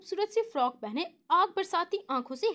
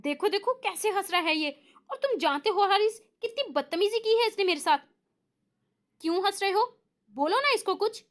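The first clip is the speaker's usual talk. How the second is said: annoyed complaint; 5 semitones higher than usual. Acted. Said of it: "नाराजगी से हारिस से कहा".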